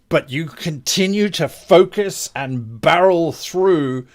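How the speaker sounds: animated, weighty action description; game master narration. Acted. Game master describing a counterspell to the caster, dramatic narration. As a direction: narrate the clash with relish.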